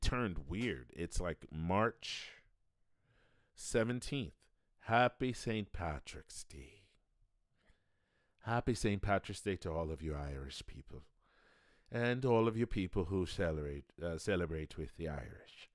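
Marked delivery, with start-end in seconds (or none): 4.8-6.8 put-on Irish accent. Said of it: "I can only do that Irish accent". 8.4-15.7 put-on Irish accent. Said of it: "I can only do that Irish accent".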